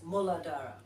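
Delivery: Muladhara confirmed as moo-la-DAH-ra, falling; pronunciation demo. Shown as a demonstration. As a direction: repeat Muladhara evenly as a model. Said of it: "how do you pronounce it".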